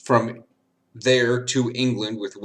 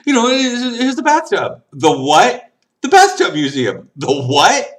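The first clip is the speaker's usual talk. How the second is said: laughing; 11 semitones higher, 7 dB louder than usual. Real, not acted. Laughing while telling bathtub museum.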